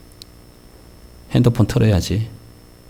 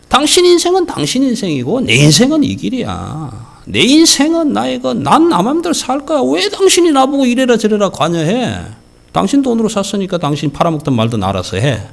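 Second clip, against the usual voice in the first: put-on defiant child; 11 semitones higher than usual. Child defying parent, retold.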